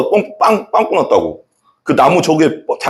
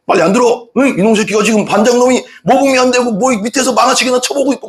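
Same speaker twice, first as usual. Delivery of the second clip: teacher yelling; 8 semitones higher than usual. Retold or imitated. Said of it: "소리 지르면서 막".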